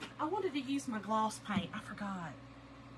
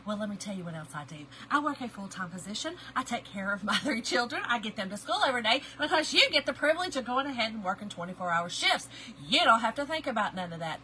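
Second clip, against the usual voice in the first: sassy comeback. Retold or imitated. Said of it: "to which I said".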